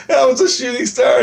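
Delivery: telling him it was just a shooting star; retold insisting. Narrator insisting to friend.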